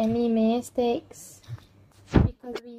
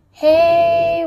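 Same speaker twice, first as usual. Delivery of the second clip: higher, louder startled "Hey"; sudden shout; 5 semitones higher, 8 dB louder than usual. Real, not acted. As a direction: call out as the piece slips away. Game piece falls off his hand.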